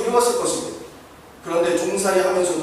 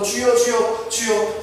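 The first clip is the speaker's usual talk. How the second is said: slightly raised urgent calls of 주여; crying out to the Lord; 3 semitones higher, much slower than usual. Acted. Preacher voicing Daniel calling on the Lord, earnest. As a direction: cry out 주여 as Daniel praying. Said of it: "주여 삼 장입니다".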